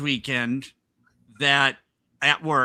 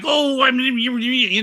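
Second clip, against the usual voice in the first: gushing woman; 8 semitones higher, 3 dB louder, much slower than usual. Retold or imitated. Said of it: "And she's like".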